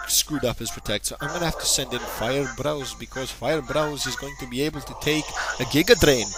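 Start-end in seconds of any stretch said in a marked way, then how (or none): 1.1-6.3 put-on Irish accent. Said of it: "my Irish accent is terrible".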